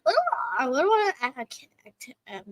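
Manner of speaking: stammering, repeating words; stuck on the words; stutter. Real, not acted. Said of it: "I got a stutter".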